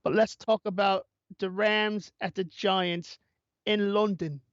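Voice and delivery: put-on lingering Cockney Irish accent; mock Cockney Irish accent. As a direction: keep hamming the Cockney Irish voice. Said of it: "more of a Cockney Irish accent".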